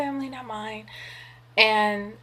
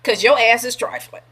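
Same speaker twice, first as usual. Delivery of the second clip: put-on old me; 4 semitones higher, 4 dB louder than usual. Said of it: "the older her be like".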